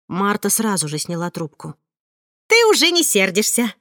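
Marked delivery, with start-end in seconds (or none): 2.5-3.7 bright, eager blurt of relief; joyful blurt. Acted. Marta to her friend on the phone, a joyful blurt. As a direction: blurt it out happily, a touch higher. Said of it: "радостно выпалила она".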